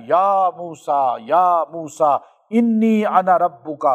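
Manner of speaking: slow, drawn-out Arabic recitation. Acted. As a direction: recite God's call unhurried and solemn. God's words recited in sermon. (آہستہ، سنجیدہ عربی تلاوت)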